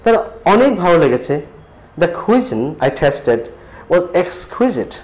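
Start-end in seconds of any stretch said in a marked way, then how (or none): 2.0-4.9 very slow, word by word; slow model sentence. Shown as a demonstration. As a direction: lay out each word for learners. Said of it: "এটা খুব সুন্দর". (খুব ধীরে, শব্দে শব্দে)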